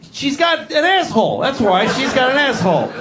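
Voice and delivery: indignant comeback, pitched high; high, aggrieved comic retort; exasperated duck husband. Acted. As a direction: protest as a fed-up husband. Duck husband answers his wife.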